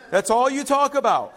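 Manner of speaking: playful teasing laugh, turned up; laughing tease. Real, not acted. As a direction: rib her with a laugh. Teasing a church member, repeated.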